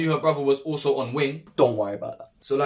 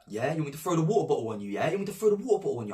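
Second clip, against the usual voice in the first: mocking taunt; 4 dB quieter, much faster than usual. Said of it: "She's like".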